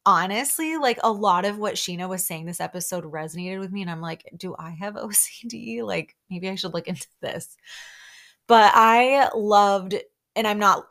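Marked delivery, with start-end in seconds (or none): 4.4-7.6 laughing self-mockery. Real, not acted. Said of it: "I'm not laughing at that at all".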